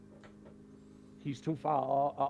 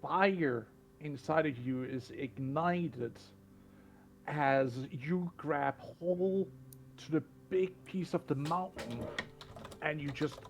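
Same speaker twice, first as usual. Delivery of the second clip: game master's dramatic narration. Acted. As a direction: build the heroic moment, stretching the key words.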